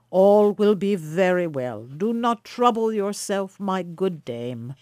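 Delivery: calm, reassuring elder, slowing at the end; kindly. Acted. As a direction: soothe the fretting hostess. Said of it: "replied the elder stranger kindly".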